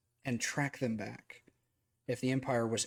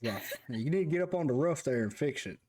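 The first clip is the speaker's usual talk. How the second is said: Southern grandfather telling you to fix the roof, exaggerated accent; 3 semitones higher than usual. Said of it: "I'm exaggerating the accent".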